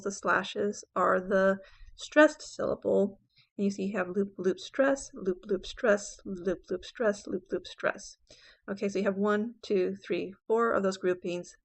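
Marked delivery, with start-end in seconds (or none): 4.1-8.2 "loop, loop, stress" chanted in threes, landing on "stress"; two light beats "loop, loop", then a firm "stress"; anapestic beat. Shown as a demonstration. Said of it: "The loops are the unstressed syllables".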